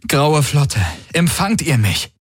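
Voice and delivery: high-pitched call to the fleet; urgent appeal. A narrator's reading. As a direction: call out, checking whether anyone receives you. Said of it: "Er wiederholte seinen Appell". (dringlicher, hoher Funkruf)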